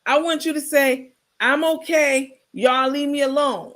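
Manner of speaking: Carmen's demo line. Shown as a demonstration. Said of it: "Let me hear you try it".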